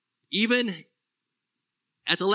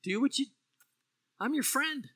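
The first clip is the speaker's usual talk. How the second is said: loving and gentle; 7 semitones higher, 4 dB quieter than usual. Retold or imitated. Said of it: "I think he was still loving Judas".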